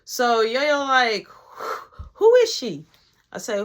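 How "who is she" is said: high, loud accusing question; pitched-up indignant challenge; imitated jealous demand. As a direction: act out a woman confronting her man. Jealous woman confronts him.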